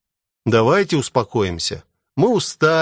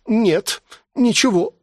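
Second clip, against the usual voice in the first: hammed-up whimper, pitched much higher; mock sobbing; 12 semitones higher, slower than usual. A narrator's reading. Grace on her knees, dramatically faking a sob, much higher. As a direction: play the wronged maid, fake tears. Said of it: "всхлипнула она".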